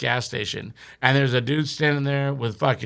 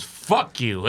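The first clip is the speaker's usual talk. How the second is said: lower, understated mock insult; dismissive retort; 4 semitones lower than usual. Bandmate refusing help in retold quarrel, dismissive. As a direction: toss the insult off low.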